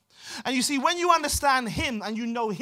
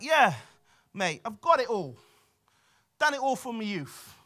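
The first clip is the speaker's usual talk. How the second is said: lightly put-on cocky Cockney swagger; 2 semitones higher than usual. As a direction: play a cocky young Cockney, lightly hammed-up. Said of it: "quite cocky ... Cockney, rich young ruler".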